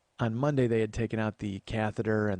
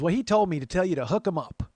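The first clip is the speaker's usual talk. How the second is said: lightly voiced neighbor lady, higher and louder; Dottie; 7 semitones higher, 5 dB louder than usual. Neighbor passing on her son's request, high lady voice. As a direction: make the request in a raised woman's voice. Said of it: "She goes".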